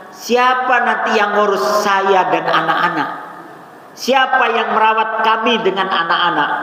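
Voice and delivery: ratapan istri bernada agak tinggi, sekadar ditirukan; istri yang menangis. Retold or imitated. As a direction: tirukan keluhan istri yang ditinggal, nada sedikit naik. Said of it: "Ini anaknya nangis, istrinya nangis". (menirukan istri menangis dengan ringan)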